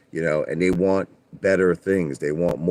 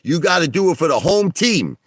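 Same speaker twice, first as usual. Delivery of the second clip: salesman pitch; 5 semitones higher, 3 dB louder than usual. Retold or imitated. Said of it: "And I'd say".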